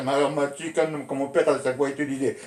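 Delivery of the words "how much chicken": slow, spelled-out "How much chicken?"; slow repeat. Shown as a demonstration. Narrator slowly repeating the soldier's question for the listener. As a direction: lay out each word slowly for the listener. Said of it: "Tu vois".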